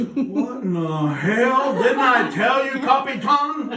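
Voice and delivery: high, loud mock bellow at the captain; exasperated boat owner hollering; angry captain yelling. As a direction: yell at him like a furious old skipper.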